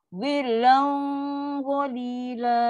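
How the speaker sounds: "zillan" held on a thick hum into "qalila"; slow chant, heavy nasal at the end of "zillan"; thick dengung. Shown as a demonstration. Teacher lets students hear the thick hum, thick dengung. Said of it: "dengar tak dia punya bunyi tebal tu".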